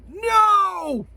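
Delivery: sudden high loud cry of no; loud high-pitched no. Retold or imitated. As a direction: cry out as the hearing returns. Acting movie character's cry.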